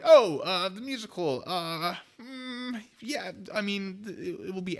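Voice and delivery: high, halting, caught off guard; flustered nervous squeak. Retold or imitated. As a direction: stammer it out like you've been cornered. Caught off guard by musical question.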